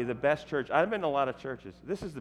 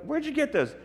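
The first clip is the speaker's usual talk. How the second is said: imitating the heckler; 14 semitones higher than usual. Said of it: "And I go".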